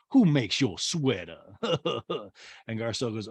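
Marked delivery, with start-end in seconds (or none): 0.1-1.4 slow sarcastic question. Retold or imitated. Sutton needling Garcelle about her sweater, slow sarcasm. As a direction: stretch it out with mock interest. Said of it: "sarcastically says".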